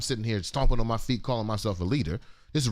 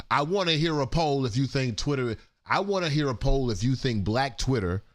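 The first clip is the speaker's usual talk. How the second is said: pointed, higher-pitched attitude; stank in the voice; 5 semitones higher than usual. Real, not acted. Host challenging listeners about Twitter, with stank. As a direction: put some stank on it. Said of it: "take some stank out of my voice".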